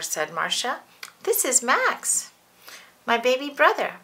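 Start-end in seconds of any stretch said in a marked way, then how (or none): 1.2-4.0 put-on a touch of a girl showing off her brother; little girl voice. Marcia introduces baby.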